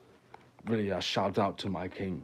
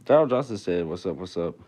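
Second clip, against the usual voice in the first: hype shout; 8 dB louder than usual. Acted. Announces a caller with hype.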